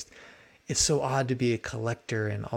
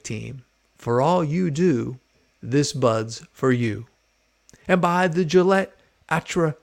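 announcer voice; 6 dB louder than usual. Retold or imitated. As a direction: read it like an old TV announcer. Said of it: "announcer voice saying".

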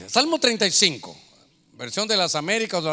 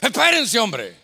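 annoyed shout; 5 dB louder, slower than usual. Retold or imitated. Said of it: "Y a los ancianos".

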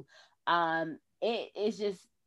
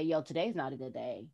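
weary admission; 7 semitones lower, 9 dB quieter than usual. Retold or imitated. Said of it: "real and say".

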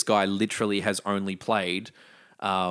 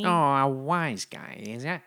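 gangster voice; 4 semitones higher than usual. Pretend. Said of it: "That's more gangster".

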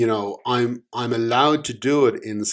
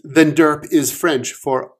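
smug bluff; 6 semitones higher, 7 dB louder than usual. Acted. Omen bluffing.

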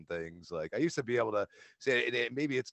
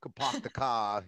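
a raised, broad Boston accent; 4 semitones higher than usual. Shown as a demonstration. Guest showing off regional accents, Boston accent. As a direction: drop the r like a Bostonian. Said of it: "you know, Boston and".

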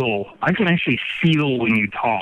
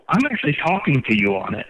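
on speakerphone; faster than usual. Real, not acted. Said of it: "suddenly you sound like shit".

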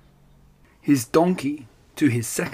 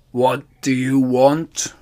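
ogre growl; 3 dB louder, slower than usual. Acted. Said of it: "growled the ogre".

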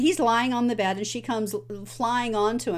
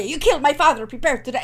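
much higher and louder, rushing fast; revived rallying cry; 6 semitones higher, 6 dB louder, faster than usual. Retold or imitated. Inigo revives against Count Rogan, loud fast rallying cry. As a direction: fling the name out like a battle cry. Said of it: "he perks up".

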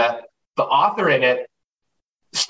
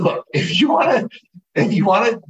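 mock announcement; 7 semitones higher than usual. Calling out to subscribers.

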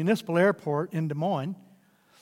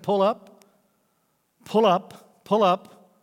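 steady, soothing repeated command; calming voice; much slower than usual. Acted. Tower voice guiding lost pilots, calm and steady. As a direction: talk the pilots up gently and evenly. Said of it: "And the calming voice said".

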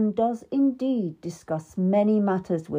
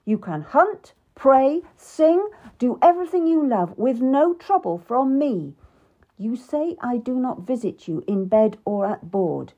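louder, higher angry king; 5 semitones higher, 4 dB louder than usual. Acted. King Henry to the queen, angry and loud. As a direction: lash out at her complaints. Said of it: "He was really angry now".

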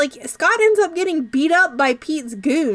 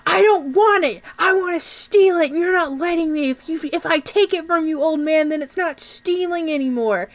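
whiny Pete; 5 semitones higher than usual. Retold or imitated. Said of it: "And Pete's like".

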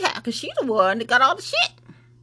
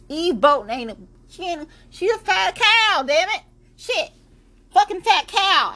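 much higher and louder, venting insults; angry rant; 9 semitones higher, 4 dB louder than usual. Real, not acted. Host ranting angrily at a school board member. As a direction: spit the insults out, furious.

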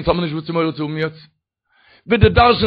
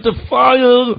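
fire cry; 4 semitones higher, 4 dB louder, much slower than usual. Retold or imitated. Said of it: "אבער דא מען שרייט".

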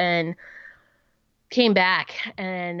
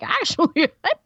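1 laughing. Retold or imitated. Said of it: "And I'm like".

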